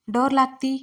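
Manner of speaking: loud sharp command to unlock; sharp demand. A narrator's reading. Wife orders husband to unlock the car door, loud sharp demand. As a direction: snap at him to open the lock.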